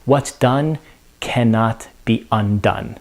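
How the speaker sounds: dropping quietly at the end; Lady Macbeth, fading. Retold or imitated. Teacher voicing the broken queen, fading softly. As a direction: let it fall away into regret. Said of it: "And she now says".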